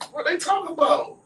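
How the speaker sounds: high, loud mock disbelief; loud bafflement. Ghetto friend baffled by the meetings, loud and high.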